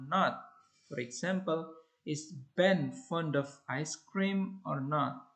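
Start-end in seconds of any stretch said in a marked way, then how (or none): 2.1-5.3 whole question on one high rising tone. Shown as a demonstration. Teacher showing a yes-no question, high rising. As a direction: lift it up as one group. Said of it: "the intonation is high rising".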